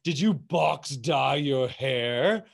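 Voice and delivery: slow, affected, scandalized hairdresser; guilt-trip the client in a put-on accent; mock scolding accent. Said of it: "you have to make that accent".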